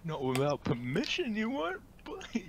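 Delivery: put-on loud, stern reprimand, calling him boy; scolding guard. Acted quarrel in character.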